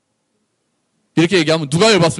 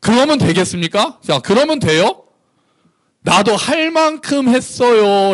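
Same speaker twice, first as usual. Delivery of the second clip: higher, drawn-out indignant protest; defiant self-defence; 8 semitones higher, slower than usual. Acted. Israel pleading its case to God, defiant. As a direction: argue back as if wronged. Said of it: "변론할 기회를 주니까".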